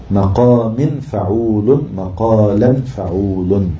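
slow, elongated syllables; metrical scansion. Shown as a demonstration. Teacher scanning the verse ending, slow and measured. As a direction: measure out each foot.

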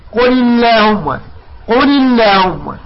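"اللهم" with thin, front "llaahumma"; slow "قل اللهم", the lam kept light after "quli". Shown as a demonstration. Teacher models lam after kasra, thin "اللهم". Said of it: "نرقق اللام".

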